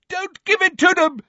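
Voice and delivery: desperate roar, extremely high; Neville. A narrator's reading. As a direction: roar it out, beside yourself. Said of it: "roared Neville".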